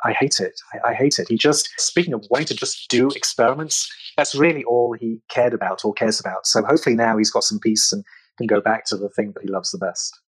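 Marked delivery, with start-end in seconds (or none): 0.0-1.3 voiced stage whisper. Retelling what a scientist said about media speculation: imitating someone half-whispering. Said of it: "in a whisper".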